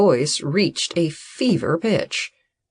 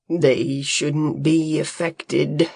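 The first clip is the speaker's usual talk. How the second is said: confident; slower than usual. A narrator's reading. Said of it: "White said, confidently".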